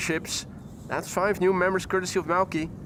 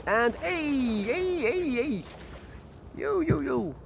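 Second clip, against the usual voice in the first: high, sing-song calls to the ducks; calling the ducks; 7 semitones higher, slower than usual. Real, not acted. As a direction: call out high to lure the ducks.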